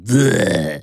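imitated blank grunt of a parent; a wordless "bleh" put on as mimicry; mock "bleh". Kid mocking the parents' reaction, imitated bleh.

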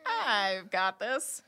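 slow, drawn-out first word; lightly voiced cat, taking its time; cat's silent boast. Game master voicing the cat eyeing the rooftop, slow self-assured cat. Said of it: "does the cat thing where it's like".

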